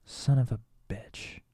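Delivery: slow under-the-breath whispered swear; whispered curse. Real, not acted. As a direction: hiss it to yourself, slowly. Cursing at forgetting.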